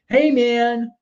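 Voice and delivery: high, drawn-out hippie bro voice; mock a laid-back peace-and-love dude, pitched well up; peacenik dude. Imagined objector to war after an attack, mock hippie dude. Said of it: "And somebody said".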